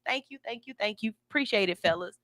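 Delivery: lightly voiced men catcalling, then her thanks; a hint of street catcall. Passing men flirt with her, lightly imitated catcall. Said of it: "they do what men do".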